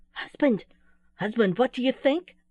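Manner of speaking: high, alarmed Mother Owl; frightened voice. A narrator's reading. Old owl reporting elf to husband, frightened. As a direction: break the news in rising alarm. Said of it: "saying in a frightened voice".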